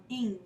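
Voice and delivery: "ing" as a single nasal ng sound; one blended sound. Shown as a demonstration. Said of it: "form together as one sound".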